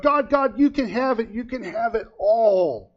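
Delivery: high, loud pleading that slows at the end; desperate surrender. Retold or imitated. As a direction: cry out giving in to God. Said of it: "he called out to God".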